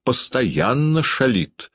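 lightly acted surly accusation; sullen. A narrator's reading. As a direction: drag out the gloomy complaint. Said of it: "угрюмо говорил Передонов".

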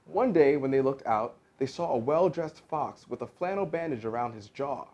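lively, expressive storybook reading; story narration. A narrator's reading. An actor reads Doctor DeSoto aloud to listeners, lively storytelling. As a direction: read it like a picture book.

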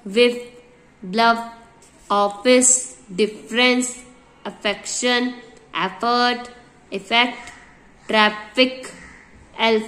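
each word spoken slowly and clearly, one at a time; pronunciation drill. Shown as a demonstration. Teacher modelling words for students to repeat, crisp and deliberate. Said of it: "जैसे जैसे मैंने word बोले वैसे वैसे मेरे साथ भी आप बोलेंगे".

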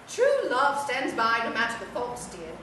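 soft, lightly voiced old lady; gently coax, a hint of a dowager; frail withering duchess. Toy softly advises, dear.

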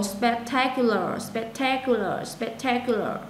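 slow drill, spectacular stressed on TAC; teacher modelling spectacular with clear second-syllable stress. Shown as a demonstration. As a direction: say spectacular slowly with the weight on spec-TAC-ular. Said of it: "Nhấn âm hai chỗ này em nha".

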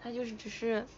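raspy, hoarse throat. Real, not acted. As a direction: talk with a husky, hoarse throat. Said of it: "我这嗓子都哑了".

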